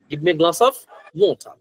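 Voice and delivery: British accent, water with no final r. Shown as a demonstration. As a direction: model a British request, dropping the r in water. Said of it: "they usually say".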